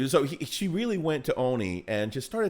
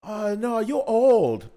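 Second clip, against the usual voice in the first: higher, blunt waitress voice; imitating waitress; 6 semitones higher, 3 dB louder, much slower than usual. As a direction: deliver it matter-of-fact like the waitress. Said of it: "so waitress is like".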